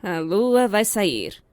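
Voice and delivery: slow unimpressed repeat at normal volume; deadpan echo. Retold or imitated. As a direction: say it back dryly, word by word. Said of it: "É claro". (repetição seca e lenta)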